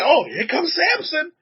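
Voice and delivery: high, slow, admiring cooing; admiring neighbors. Retold or imitated. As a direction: coo over the strong little boy. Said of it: "They say".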